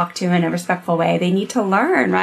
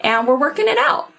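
put-on teeny baby voice; 3 semitones higher than usual. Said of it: "little teeny baby voice".

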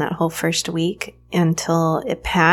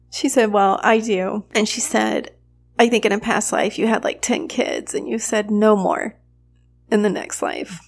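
a touch tearful, slightly raised; choked up; 3 semitones higher than usual. Real, not acted. Mother quoting her massage therapist on past lives, choked up. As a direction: hold back tears while telling it. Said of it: "getting choked up here".

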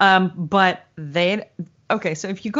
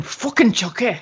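lightly imitated little-girl tic; Millie. Verbal tic copying the little girl, tough. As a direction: blurt it like a cussing small child. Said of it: "she says it just like the little girl".

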